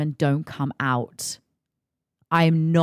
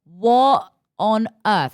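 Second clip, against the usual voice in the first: retold outrage. Texting the man from his bathroom, retold pissed-off disbelief. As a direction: retell your own outrage, stretching the opening and closing exclamations. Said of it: "I was pissed at this point".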